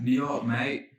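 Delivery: light mock-Cockney accent; playful attempt at Cockney. Shown as a demonstration. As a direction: say it with a put-on Cockney twang. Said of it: "as Cockney as you can".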